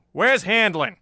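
loud, high, angry question; harsh demand. A narrator's reading. Chief confronting the murderer, harsh demand. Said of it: "demanded harshly".

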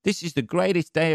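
carefree prey animal, blissfully unaware; dim happy prey. Retold or imitated. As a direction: voice a dopey animal having the best day. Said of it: "its prey's just standing there like".

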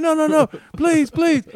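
very high, loud frantic pleading; panicked begging. Retold or imitated. Thief begging the cop not to throw his Jordan, frantic. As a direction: beg like he's about to lose everything.

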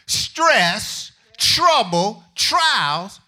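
slow, weighty scripture reading. Acted. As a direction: lay each word down slowly.

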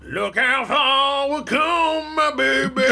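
high, slow, hammed-up weepy voice; mock tearful. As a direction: croon it like a proud parent. Sentimental ending of season.

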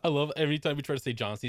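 ordinary talk

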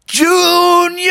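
high, loud accusing call. Acted. Bubby calling out to Junior over the missing candy, loud. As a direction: shout his brother's name.

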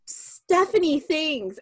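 ordinary talk

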